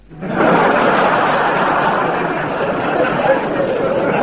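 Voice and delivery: long breathy wicked chuckle; a voiceless gleeful wheeze; sly cackle. Acted. Frazer gloating on the phone to Sir Charles, a long sly breathy cackle.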